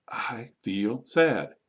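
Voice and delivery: very slow, each word set apart; word-by-word modelling. Shown as a demonstration. Teacher repeating for learners to copy, very slow and separated. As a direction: stretch and separate every word.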